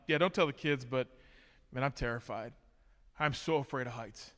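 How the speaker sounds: hushed confession. Retold or imitated. Confessing fear to instructor, hushed.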